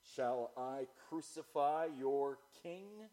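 slow, drawn-out mocking question; scornful sarcasm. Pilate asking the crowd, slow scornful question. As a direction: stretch it out with a touch of sarcasm, rising at the end. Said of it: "full of scorn and full of sarcasm".

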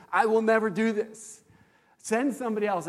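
an emphatic never-me plea; insistent refusal. Retold or imitated. Retelling his vow to the Lord.

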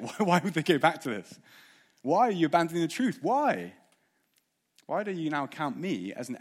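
Paul's baffled plea to the Galatians; exasperated pleading. Acted. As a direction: plead with them in disbelief.

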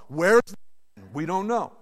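ordinary talk

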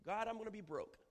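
high, loud, half-laughing panic; despairing prayer. Acted. Preacher mimicking a panicked prayer about money. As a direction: cry out your fears to God. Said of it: "it's the despair".

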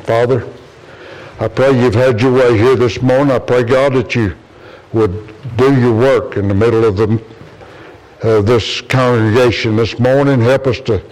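earnest pulpit prayer, rising in pitch; closing prayer. Real, not acted. Pastor prays over the standing congregation, earnest and fervent. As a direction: pray over the congregation with fervour.

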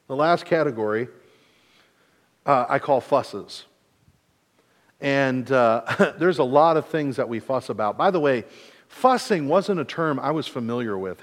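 ordinary talk, nothing marked

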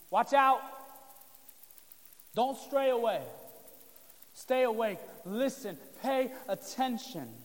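loud, urgent commands; urgent warning. Retold or imitated. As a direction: warn them sharply to stay alert. Jesus warns disciples, preacher voicing.

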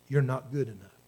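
low, soft put-down; discouraging inner voice. Acted. Doubting voice telling the believer of failings, low and discouraging. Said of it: "the voice that says".

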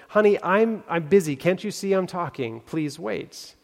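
put-on a harried shopkeeper waving a kid away; busy pharmacist. Busy pharmacist brushes off girl.

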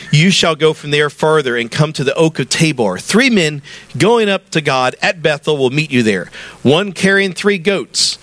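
measured reading with lifted, ringing phrases; scripture reading. Acted. Pastor reading verse three to the church, measured scripture reading. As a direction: read the verse out to a congregation, phrase by phrase. Reads scripture aloud to congregation.

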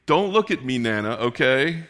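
a lightly voiced, sweet little girl; a hint of a sweet toddler pleading; sweetly. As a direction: sweetly ask Nana not to peek. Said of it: "but said sweetly".

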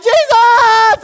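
very high, full-out joyful shout; excited scream. Acted. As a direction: scream it like a man just healed. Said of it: "he was shouting, he was screaming, he was excited".

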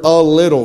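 "a little" set apart and underlined by the voice; stress on "a little". Retold or imitated. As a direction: press firmly on "a little". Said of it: "I underlined that word".

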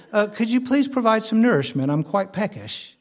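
put-on prim, quick English-accented request; mock English accent. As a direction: play a politely hungry baby with an English accent. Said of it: "That's my Caleb English accent".

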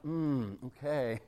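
lightly played doctor dad; dad triaging. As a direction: calmly lay out the treatment options. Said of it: "I would, like, triage them".

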